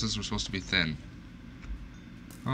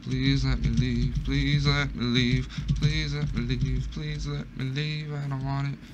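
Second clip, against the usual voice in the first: higher, frantic begging; panicked pleading; 3 semitones higher, 4 dB quieter than usual. Real, not acted. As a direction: beg to be let go. Panicked refusal of item.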